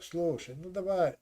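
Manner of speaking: ordinary talk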